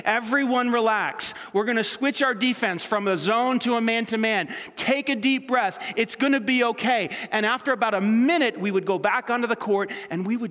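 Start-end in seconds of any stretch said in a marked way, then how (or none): 0.1-7.1 coach calming team. Retold or imitated. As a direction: settle the players down gently. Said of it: "he would look us in the face and say".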